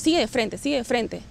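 mildly frightened inner voice, repeating insistently; voz muy asustada. Retold or imitated. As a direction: urge onward like a scared voice. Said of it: "pero muy asustada esa voz". (imitando una voz asustada)

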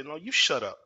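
retold yelling. Employee yelling back at his manager, retold defiant yell. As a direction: throw the order straight back, mock angry. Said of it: "I start yelling at him".

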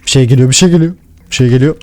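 real jumpy panic; nervous alarm. Real, not acted. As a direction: warn yourself something's coming. Something approaching in dark.

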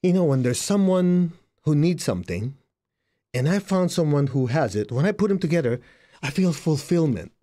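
lightly voiced billionaire. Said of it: "He goes".

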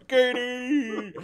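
loud high laughing shout; calling out laughing. Real, not acted. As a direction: shout her name through laughter. Laughing call out.

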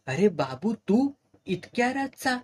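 startled to find Babu there; sudden surprise, pitched high; surprised. Acted. Groggy man surprised at visitor.

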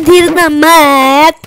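very slow, drawn-out धीरना मत; slow mock quote. Imitating the teammate for viewers, slow drawn mock. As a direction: stretch धीरना मत out mockingly. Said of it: "ऐसे बोल रहा था guys".

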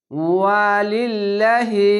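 slow "ওয়ালিল্লাহি" with a thin, light ল্লা; chanted "ওয়ালিল্লাহি", lam unthickened, vowels long; thin Allah lam. Shown as a demonstration. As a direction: keep ল্লা light and draw it out. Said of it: "তার জন্য পাতলা করা হবে".

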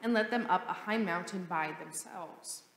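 measured, solemn scripture reading; gospel reading. Acted. Priest reading the gospel to the congregation, measured and solemn. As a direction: proclaim the gospel steadily to the congregation.

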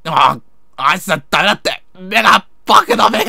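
pained yelling. Acted. Eyes being squeezed in game scene.

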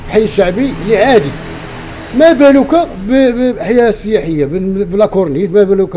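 loud, heated complaint; angry shouting. Real, not acted. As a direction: raise your voice in frustration. Frustrated café owner complaining.

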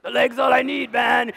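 put-on cocky kid insisting on his Hulk leg; kid's defiant voice. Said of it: "And I was like".

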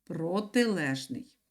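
протилежний stretched out slowly, syllable by syllable; slow dictation. Shown as a demonstration. Teacher repeats протилежний slowly for dictation. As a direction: draw out протилежний slowly for writing. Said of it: "Пишемо слово".

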